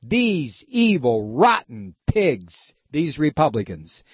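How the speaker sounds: slow, drawn-out disgust; slow contempt. Real, not acted. Host cursing Republicans, slow seething contempt. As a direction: spit each word out slowly.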